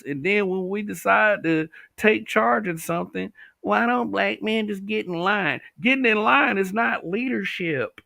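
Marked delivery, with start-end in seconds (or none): 3.6-5.6 higher mocking voice; mock quote. Mocking the women telling black men to fall in line. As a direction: sneer it back at them.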